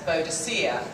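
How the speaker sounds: "Boadicea" as bo-uh-dih-SEE-uh; traditional mispronunciation. Shown as a demonstration. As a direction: say "Boadicea" the old way, ending in SEE-uh. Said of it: "wrongly translated her name".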